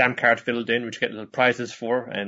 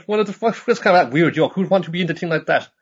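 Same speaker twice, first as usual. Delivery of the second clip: mocking cartoon voice; 7 semitones higher, 4 dB louder, faster than usual. Voicing mocking friends.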